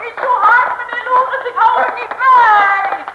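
loud, high breathless call with laughter; panting and laughing. Acted. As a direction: puff after him while running.

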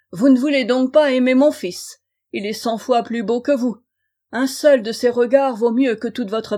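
put-on bully and threaten the kneeling girl; menacing king.

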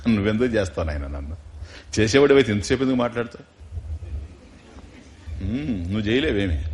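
low, soft, unbothered reply; gently disarm him, almost fondly; calm sage. Retold or imitated. Narada calmly answering the robber, low and soft.

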